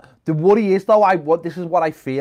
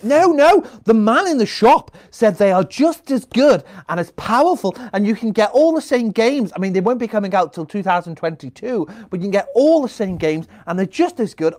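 mock defensive parent; 3 semitones higher than usual. Parent insisting to kids.

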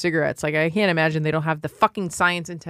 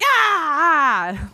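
funeral director impression; 8 semitones higher than usual. Funeral director panicking over his clean car, high frantic whine. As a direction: squeal it like a frantic little New York man. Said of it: "going on, like".

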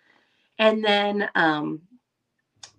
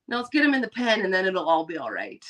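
firm. Retold or imitated. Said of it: "And now I'm just like".

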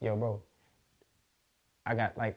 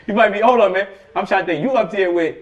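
laughing; 9 semitones higher, 14 dB louder than usual. Real, not acted. Laughing while teasing the host.

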